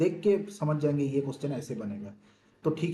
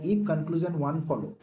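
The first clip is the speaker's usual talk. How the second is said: slow option reading; much slower than usual. Shown as a demonstration. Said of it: "देखिए आपको क्या क्या option दिया है".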